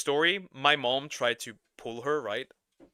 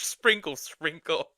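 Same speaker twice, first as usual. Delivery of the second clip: mocking sprinkle; 3 semitones higher, slower than usual. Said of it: "That was cringe".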